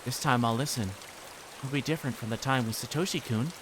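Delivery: sweetly insistent, with menace underneath; sweet creepy girl. Acted. Reina coaxing Keiichi to talk, creepy sweetness.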